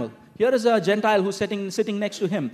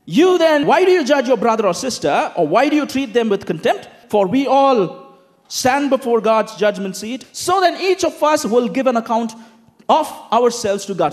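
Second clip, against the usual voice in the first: scripture reading; 2 semitones higher, 3 dB louder than usual. Acted. Reads scripture passage aloud.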